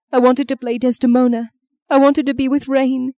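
high-pitched grieving self-reproach; distraught. Acted. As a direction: spill out grief and regret to mum. Bereaved daughter pours out guilt.

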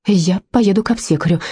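firm. Acted. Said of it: "твёрдо сказала я".

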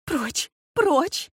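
wife shrieking at the servant to take the beast away. A narrator's reading. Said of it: "вскричала она".

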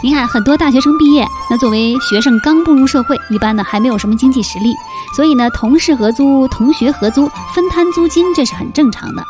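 loud cheerful host opening; host announcer. Acted. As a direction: greet listeners like a radio host.

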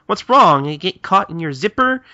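high, loud calling through a door; Kagura. Acted. Kagura shouting through the bathroom door, calling out. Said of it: "Kagura knocking on the, uh, bathroom door and going".

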